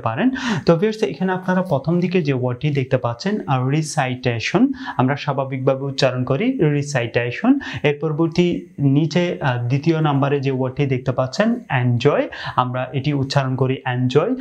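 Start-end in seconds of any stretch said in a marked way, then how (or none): 3.8-7.5 RISAITESHON with "sai" like "sigh" in the middle; wrong "ree-sigh-TAY-shon"; common mispronunciation. Shown as a demonstration. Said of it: "সেই উচ্চারণটি সম্পূর্ণরূপে ভুল". 13.9-14.3 এনজয় opened with an "en" sound; everyday Bengali "en-joy"; common mispronunciation. Shown as a demonstration. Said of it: "আসলে আমরা ভুল উচ্চারণ করে থাকি".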